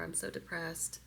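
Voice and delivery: fading to whisper. Shown as a demonstration. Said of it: "I'm so upset".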